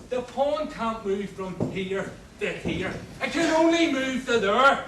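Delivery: builds to a loud, high furious yell; angry chess row. Acted. Prisoner yelling at cellmate over a chess move. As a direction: lose your temper over the pawn.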